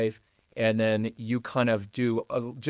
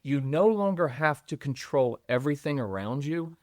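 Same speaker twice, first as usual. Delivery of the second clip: choked up; 2 semitones higher than usual. Real, not acted. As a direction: voice tight with held-back tears. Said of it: "I'm choking up".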